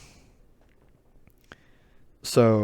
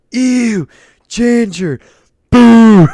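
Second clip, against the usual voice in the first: high, loud mock disgust at "ginger"; mocking jeer; 13 semitones higher, 14 dB louder, much slower than usual. Server friends jeering at the new ginger, high mock disgust. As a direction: sneer it out like a jeering kid.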